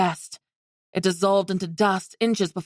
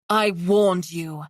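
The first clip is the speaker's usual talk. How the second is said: low and venomous; slower than usual. Acted. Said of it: "Her voice was low and venomous".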